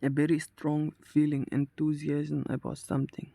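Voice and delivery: slow, deliberate reading of a quiz question. Acted. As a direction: read the question out slowly and evenly. Reads quiz question aloud. (धीमी गति से प्रश्न पढ़ना)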